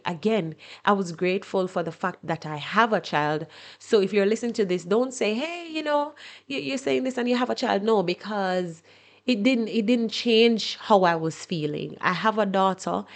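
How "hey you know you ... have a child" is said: lightly mocked objection in a higher pitch; higher-pitched, quick imitation of someone objecting; imagined objector. Imagined listener objects to her grief, higher-pitched mild imitation.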